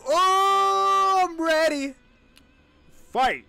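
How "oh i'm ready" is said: hyped up. Real, not acted. Hyped before fight.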